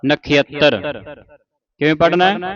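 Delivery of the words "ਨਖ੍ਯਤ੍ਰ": ਨਖੇਤਰ as na-khi-at-tar; glided vowel. Shown as a demonstration. Teacher models for learners, ਨਖੇਤਰ as na-khyat-tar. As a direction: put ya after kh and double the t in ਨਖੇਤਰ. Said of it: "ਨਖੇਤਰ ਉਚਾਰਨ ਕਰਨਾ ਹੈ".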